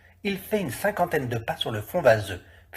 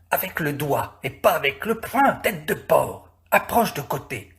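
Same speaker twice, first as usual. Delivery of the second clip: raised, rough squabble between two workmen; bickering fishermen; 3 semitones higher than usual. Acted. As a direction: boss each other about while hauling. Fishermen quarrelling in the water.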